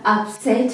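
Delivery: the verb "upset", up-SET; weight on the second syllable of "upset"; stress on second syllable. Shown as a demonstration. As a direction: demonstrate up-SET as an action. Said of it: "Second part".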